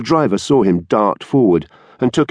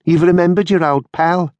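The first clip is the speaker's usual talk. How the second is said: high, taunting exclamation; exclaiming; 9 semitones higher than usual. A narrator's reading. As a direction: crow at an old pal. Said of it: "exclaimed Halliwell".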